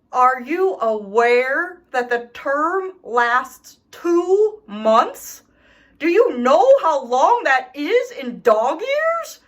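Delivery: rising indignant complaint; outraged, pleading disbelief. Acted.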